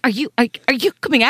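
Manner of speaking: high, quick hopeful call to a driver. Retold or imitated. Mum calling out to a van driver, high and hurried. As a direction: lean out and ask fast, hoping.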